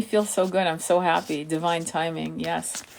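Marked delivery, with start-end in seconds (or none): none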